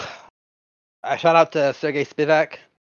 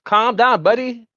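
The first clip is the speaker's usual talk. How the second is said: higher, louder British catchphrase impression; Michael Bisping; 7 semitones higher, 5 dB louder, slower than usual. Podcast host quoting a fighter's catchphrase to his co-host, imitated accent. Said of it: "Michael Bisping says".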